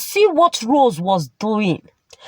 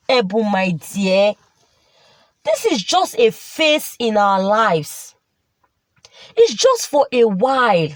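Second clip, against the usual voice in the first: consoling. Acted. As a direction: soothe the wife through it. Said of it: "consoling his wife".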